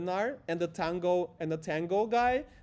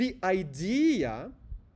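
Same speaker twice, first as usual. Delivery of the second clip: idea stressed strongly, hit hard. Going over the phrase one more time, strong stress on idea. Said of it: "and I'm emphasizing this word".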